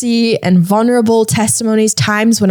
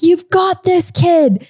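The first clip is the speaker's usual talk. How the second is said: retold shout; 8 semitones higher, slower than usual. Friend cheering from the back of the classroom, retold shout. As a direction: imitate a shouted cheer at a raised pitch. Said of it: "he shouted out in the back of the classroom".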